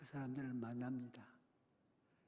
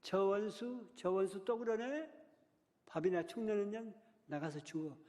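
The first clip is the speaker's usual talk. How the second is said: a parent's harsh yell, higher and louder; scornful parent yelling; 6 semitones higher, 6 dB louder than usual. Retold or imitated. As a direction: spit the curse at the daughter, loud and high. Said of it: "어떤 말인 줄 아세요?".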